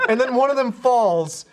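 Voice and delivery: ordinary talk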